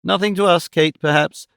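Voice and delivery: "Nothing to us" pitched high with weight on "us"; emphatic. A narrator's reading. Mother contradicting her daughter, emphatic high stress on "us". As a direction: lean firmly on "us" in "Nothing to us". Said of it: "said Mrs. Nickleby emphatically".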